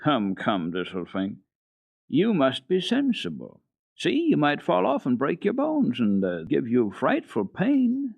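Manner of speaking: slow, gentle coaxing; girl soothing a runaway goat, slow and gentle. Acted. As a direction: soothe a frightened goat, slowly. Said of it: "said soothingly".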